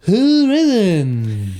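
high, loud showman voice; a hint of a talk show host. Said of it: "your talk show host voice".

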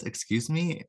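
high rising surprised excuse me; surprised question. Retold or imitated. Mystery voice behind the door, startled at the visitors. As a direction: pitch it up as if taken aback. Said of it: "The voice says".

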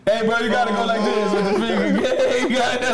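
high, laughing bro voice; frat bro. Acted. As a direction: goad him like a laughing bro. Joking imitation, laughing.

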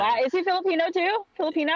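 high, quick amazed question; surprised. Real, not acted. Hearing the producer speaks Tagalog, asks in high quick surprise. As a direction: genuinely caught off guard, pitch jumping up.

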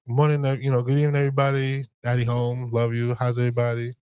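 bright, upbeat hello to the family; a sing-song warm welcome home; cheerful greeting. Retold or imitated. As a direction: come home all sunshine, greeting everyone. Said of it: "if I come in and I'm like".

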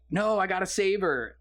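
mock teenager. Retelling Indy protesting to his dad, mock teenage protest. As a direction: lightly imitate an insistent teenager. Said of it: "pretending like he's a teenager again".

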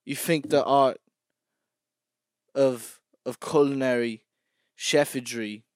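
a British chef scolding a cook; British accent. Acted. Mock British celebrity chef. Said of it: "I can't say art in British accent language".

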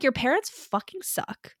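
slow hushed whisper, voice gone to breath. Retold or imitated. Host quoting Eve's verdict on the parents in a slow whisper. Eve consoling about bad parents.

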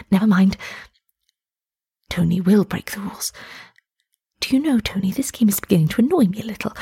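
breathy unvoiced whisper. Missus Gorman whispering to Tony behind the curtain, hushed whisper. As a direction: keep it hushed so the seekers won't hear.

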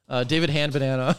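chuckling through the made-up name; laughing. Real, not acted. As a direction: let the laugh spill into the words. Laughs at his own nickname.

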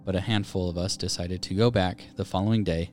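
measured narrator with suspenseful pauses; scary story narration. A narrator's reading. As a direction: read out an eerie first-person tale. Reads a submitted Reddit story.

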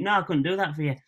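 "couldn't" with the d swallowed; casual Hull "couldn't" that resembles swearing; Hull pronunciation. Shown as a demonstration. Showing it is just normal speech, Hull pronunciation. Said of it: "You're just speaking".

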